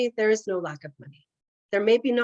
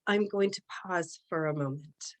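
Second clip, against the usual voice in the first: whispering; 4 semitones lower, 6 dB quieter than usual. Real, not acted. Pausing during an energy session.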